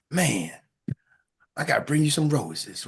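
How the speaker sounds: low mock romancer; sexy voice. Man promising roses, playful sexy voice. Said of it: "put my sexy voice on".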